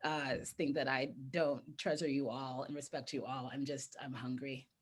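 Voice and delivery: talking while eating; mouth full. Real, not acted. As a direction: speak around a bite of food. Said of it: "I'm gonna be talking and eating".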